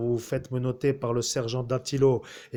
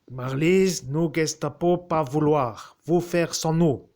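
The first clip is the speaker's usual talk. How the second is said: Gestapo officer voice; 7 semitones higher, 5 dB louder, slower than usual. Retold or imitated. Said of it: "Et la Gestapo a dit".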